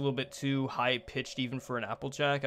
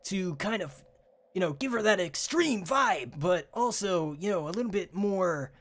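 higher sporty pony voice; lightly pitched-up tomboy pony; a hint of Rainbow Dash, higher; 5 semitones higher than usual. Shown as a demonstration. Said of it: "I just kinda go like this".

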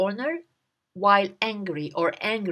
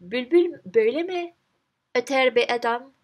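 louder, indignant question; mild angry yell; 3 semitones higher, 4 dB louder than usual. Acted. Garden owner scolds the man, a mild angry shout. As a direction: scold him for the noise. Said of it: "What did he say?".

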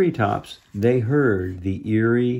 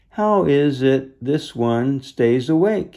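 gravelly beast voice; 3 semitones higher than usual. Acted. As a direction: ask like a curious beast. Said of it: "a deep, gravelly voice".

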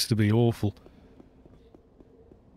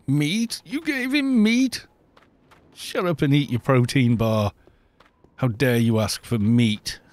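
mock overseer; 3 semitones higher than usual. Mocking Omnitech schools, an overseer scolding over meat.

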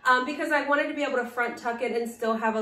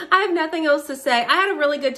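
giggly, bright and loud; laughing; 4 semitones higher, 7 dB louder, faster than usual. Real, not acted. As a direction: laugh through the line. Giggling at the wrap-up.

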